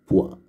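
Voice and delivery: "poire" split into poi, pause, re; deux syllabes. Shown as a demonstration. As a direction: sound the final re of "poire" as its own syllable. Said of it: "avec deux syllabes". (« poire » en deux syllabes séparées : poi, re)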